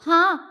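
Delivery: sigh. A narrator's reading. Ponnu sighs after weighing the idea. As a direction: let out a resigned "haa". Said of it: "Ponnu നിശ്വസിച്ചു".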